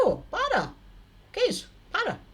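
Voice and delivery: alarmed shout. Retold or imitated. Woman pulling her rings off.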